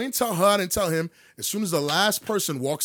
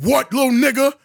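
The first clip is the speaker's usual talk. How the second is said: mock menacing villain; 5 semitones higher, 6 dB louder than usual. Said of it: "he sounded like a super villain".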